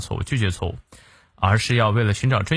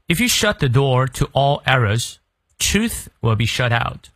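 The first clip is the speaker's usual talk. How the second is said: slow model reading for learners; careful read-through; 2 semitones higher than usual. Shown as a demonstration. Teacher going through the sentence from start to end, slow careful reading. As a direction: read the whole sentence slowly and clearly. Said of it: "从头到尾我们来过两遍".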